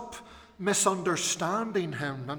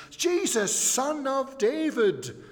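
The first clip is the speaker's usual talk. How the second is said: much higher and louder, a desperate plea; crying out; 9 semitones higher, 5 dB louder, slower than usual. Retold or imitated. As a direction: call out like a blind beggar from the roadside. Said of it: "begging, crying out to Jesus".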